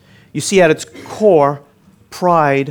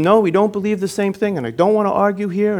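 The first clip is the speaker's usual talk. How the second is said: raised-pitch retold curt refusal; abrupt, higher-pitched brush-off; 7 semitones higher than usual. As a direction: cut him off mid-argument. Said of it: "I was very curt, very abrupt".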